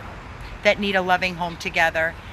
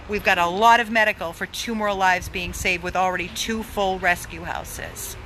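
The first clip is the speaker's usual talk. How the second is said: out of breath. Real, not acted. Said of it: "And I am out of breath from talking".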